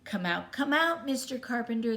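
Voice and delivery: loud, high calling out to the carpenter. Acted. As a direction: call him out of the shop. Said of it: "they called".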